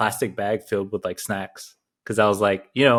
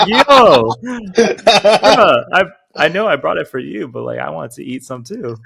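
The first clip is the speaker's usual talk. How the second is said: high, loud protest through laughter; cracking up mid-complaint; laughing protest; 7 semitones higher, 7 dB louder than usual. Retold or imitated. Retelling protest while laughing.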